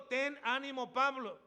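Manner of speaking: booming voiced Jesus; loud proclaimed quote. Preacher voicing Jesus again.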